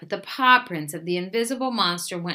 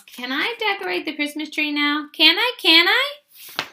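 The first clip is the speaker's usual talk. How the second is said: high, excited begging that climbs higher; eager pleading; 9 semitones higher, 4 dB louder than usual. A narrator's reading. Little Mouse begging Big Mouse to decorate the tree, excited. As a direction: beg like an eager little child.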